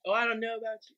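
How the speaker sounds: lightly imitated South London singer; South London accent. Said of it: "so fucking South London".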